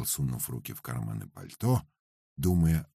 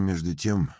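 ordinary delivery, nothing marked

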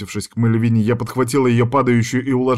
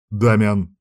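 mild growl. Acted. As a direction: warn the friend off. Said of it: "рык Сайфера".

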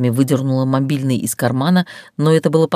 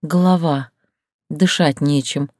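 faked breathlessness. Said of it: "делая вид, что не могу вдохнуть".

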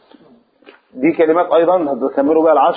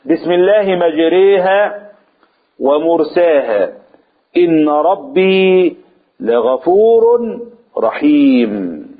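Quran recitation; 2 semitones higher, much slower than usual. Shown as a demonstration. Reciting the verse.

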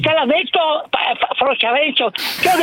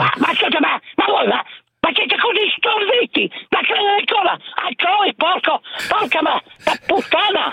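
explosive Italian cursing. Real, not acted. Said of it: "l'esternazione della bestemmia".

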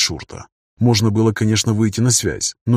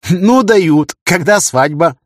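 mocking friend; 7 semitones higher, 6 dB louder, much slower than usual. Тихий mocks the couple.

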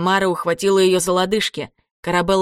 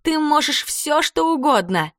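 put-on encouraging ghost girl; 8 semitones higher than usual. A narrator's reading. Mara encouraging.

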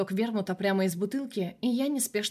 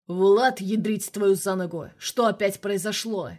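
loud, exasperated colonel barking down the phone; indignant outburst; 5 dB louder, slower than usual. Acted. The colonel on the phone scolds Vlad, loud and indignant. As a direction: blast him with indignation. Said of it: "Сразу же возмутился Ржевский".

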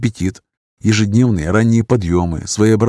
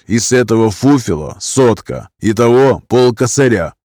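slow, heavy prison-slang threat; lightly voiced gangster, slow and cold; menacing criminal thug. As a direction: lean in and threaten coldly. Hero names his price.

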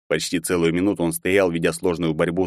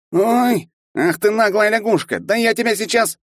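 high, loud yelp turning into an angry threat; stung, he rounds on the boy; 4 dB louder than usual. A narrator's reading. Kicked half-elf bully yelping at the boy, furious.

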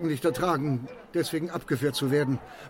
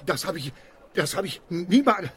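agitated stammer. Acted. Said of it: "Regen Sie sich nicht auf".

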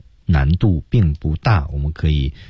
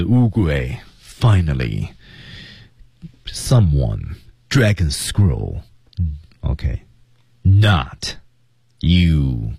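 Uguay、finally、someone、dragon scroll、not、you 一个个分开读清楚; 逐词拉长咬清 finally、someone、dragon scroll; 关键词读清楚; 3 semitones lower, much slower than usual. Shown as a demonstration. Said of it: "一定要把它读清楚". (关键词逐个慢读，词间停顿)

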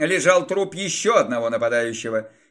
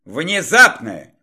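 loud, slow angry bark; 2 semitones lower, 4 dB louder, slower than usual. Acted. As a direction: bark the word out. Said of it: "рявкнул барон".

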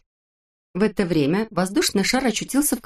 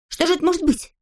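puzzled high question; 11 semitones higher, faster than usual. A narrator's reading. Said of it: "спросил Торопышка".

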